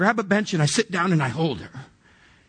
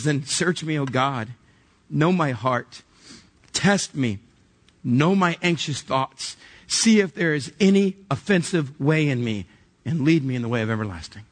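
scripture reading; 3 semitones lower than usual. Acted. Reads psalm aloud.

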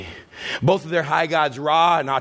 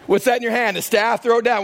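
God's voice; 8 semitones higher than usual. Acted. God voiced again, raised.

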